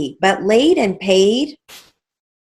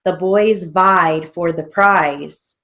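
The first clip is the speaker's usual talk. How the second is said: slow dictation; 3 dB louder, slower than usual. Shown as a demonstration.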